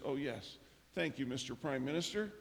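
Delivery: calm, subdued reply; suddenly calm. Retold or imitated. Carl the assistant thanks the prime minister, calmed down. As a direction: answer as if instantly settled. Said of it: "Carl is calm".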